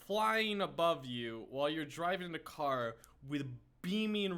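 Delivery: quiet musing. Real, not acted. Musing alone over the story.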